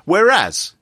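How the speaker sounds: heavily sarcastic, feigning approval at the end. Real, not acted. Host sneering at printer-wasting hacker, sarcastic. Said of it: "I'm being sarcastic".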